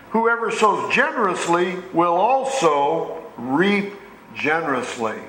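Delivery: slow, deliberate scripture reading with drawn-out phrases; measured pulpit reading, pausing between clauses. Acted. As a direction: read the verse out slowly and weightily. Reads scripture aloud to congregation.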